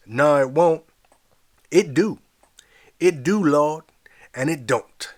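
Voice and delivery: loud high shouts of praise; ecstatic congregation. Acted. Congregation answering the preacher, loud and high. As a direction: shout back to the preacher in rapture.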